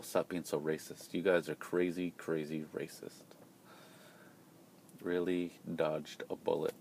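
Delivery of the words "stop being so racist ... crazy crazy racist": mock retort. Imagined retort to complaint.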